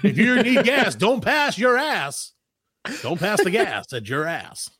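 slow radio jingle read. Pretend. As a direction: pitch the sponsor like a DJ. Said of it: "I can't help but do the radio voice".

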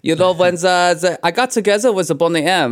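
put-on hammy movie-villain German accent; a music producer's German accent. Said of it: "he sounded like when you do a German accent".

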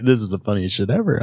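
retold through a chuckle; imitated laughing urologist. Urologist laughing at his patient's agony, amused. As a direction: imitate a doctor cracking up. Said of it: "like, laughing".

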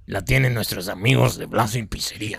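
a hint of a smooth crooner; a classic crooner's voice. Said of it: "vamos a hacerlo como que José José".

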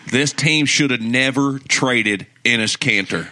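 mock Southern hot-take rant; Southern accent. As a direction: lay down the verdict in a put-on Southern accent. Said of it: "in a Southern accent".

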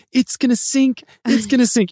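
high, panicky cry that the boat will sink; panicked mom. Retold or imitated. Retelling the boat trip, mom panicking in a high voice. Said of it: "my mom is like".

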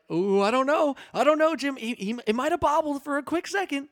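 high, excited, doubting commentator voice; Tony Romo. Retold or imitated. Imitating the commentator second-guessing a catch to Jim, high excited impression. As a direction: pitch it way up like a fretting color commentator. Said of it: "I like when he's like".

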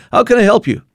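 put-on high, loud old lady with a thick Armenian Christian accent; an elderly church lady answering the door, high and loud in a thick Christian accent. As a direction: greet him brightly in a heavy Christian-Iranian accent. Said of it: "with a very thick accent".

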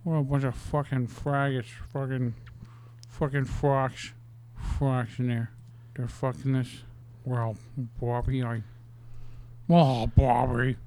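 a loose, mumbled celebrity mash-up; Al Pacino doing Nixon. Acted. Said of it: "now he sounds like ... Al Pacino".

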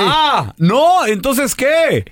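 high, taken-aback question; el feo. Acted. Poor man turned down by the devil, high puzzled voice. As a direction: squeak it in disbelief. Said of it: "grita el feo".

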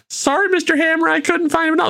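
high, apologetic whine; nervous underling. Retold or imitated. Underling apologizing to Mister Hammer, high and sheepish. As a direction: cringe as you report failure. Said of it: "so he goes".

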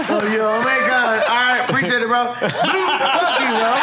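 hammed-up prank caller voice; mock a singer on a prank call; old flip phone call.

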